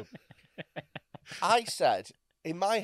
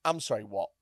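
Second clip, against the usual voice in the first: slow, drawn-out disbelief on too spicy; incredulous; slower than usual. Retold or imitated. Server asking S0 in slow disbelief. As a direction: ask it like you can't believe it. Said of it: "And she went".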